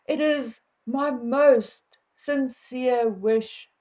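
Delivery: slow, overly formal sincere wish; mock formal phrasing. Shown as a demonstration. South African vlogger mocking stiff royal wording, slow and formal. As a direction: lay the formality on thick, slowly. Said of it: "we do not say things like".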